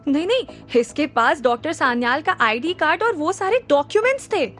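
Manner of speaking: a touch of nervous haste; flustered. Acted. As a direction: mildly panicky denial. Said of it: "doctor Qureshi घबराकर बोले".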